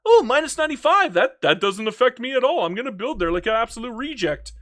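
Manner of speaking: lightly voiced mock of a careless AI; mock careless builder. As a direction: ham up a clueless builder shrugging off the losses. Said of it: "Private construction doesn't care".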